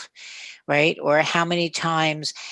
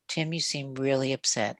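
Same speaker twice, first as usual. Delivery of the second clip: late night FM voice; 6 dB quieter than usual. Shown as a demonstration. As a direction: soothe him like a late night DJ. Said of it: "I would use my late night F M voice".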